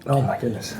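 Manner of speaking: slow, strained through spicy burn; mouth burning from spicy food. Real, not acted. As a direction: speak with the tongue on fire. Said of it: "My tongue is on fire".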